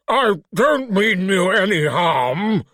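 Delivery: put-on slow, careful refined British accent; lightly voiced refined British creature. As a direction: speak like a polite English gentleman in a monster's body. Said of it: "Its voice was deep and garbled".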